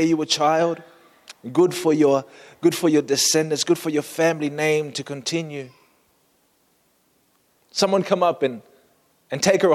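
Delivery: auctioneer voice. Acted. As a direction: hawk her like a market auctioneer. Auctioneer calling for bids.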